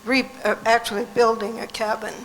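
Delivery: hoarse, fading voice; losing her voice, hoarse. Real, not acted. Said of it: "I'm getting a little hoarse".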